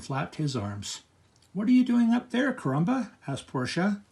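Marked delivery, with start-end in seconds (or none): 1.5-3.1 loud call upward. Acted. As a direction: shout up to someone above. Portia calls up to him.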